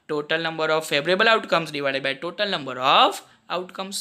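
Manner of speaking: steady, slow formula read; slow dictation. Acted. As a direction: dictate each word clearly.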